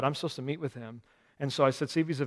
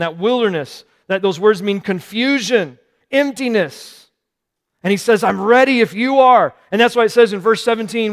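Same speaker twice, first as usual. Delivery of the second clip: preaching; 6 semitones higher, 13 dB louder than usual. Acted. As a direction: preach it out to the room. Preaching at full force.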